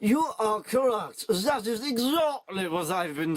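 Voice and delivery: slow, sneering villain voice; villain sneering his confession; sneering German villain. Acted. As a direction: gloat slowly like a film villain. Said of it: "sneered the Germ".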